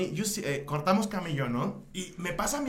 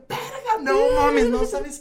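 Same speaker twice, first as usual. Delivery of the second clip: retold panic; 6 dB louder, much slower than usual. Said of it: "así se me desmayó y así yo".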